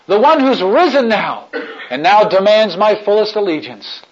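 joyful, laughing through the words. Acted. Cross bearer laughing with joy at his privilege. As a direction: let the joy break into laughter.

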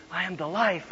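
very soft, hushed prompt; mock stage-prompter's whisper; imitated whisper. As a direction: slip the line across under your breath. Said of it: "Then softly our youth pastor, pastor whispers".

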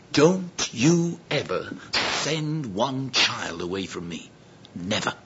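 very slow, dropping low and soft; stern rebuke. Acted. Jesus warning his disciples, stern and measured. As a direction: warn them gravely, word by word. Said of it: "Jesus spoke sharply".

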